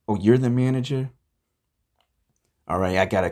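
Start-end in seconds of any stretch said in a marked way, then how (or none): 0.1-1.1 high, loud disbelief; taken-aback, higher voice; incredulous question. Acted. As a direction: question them in rising surprise. Learns who the manager is.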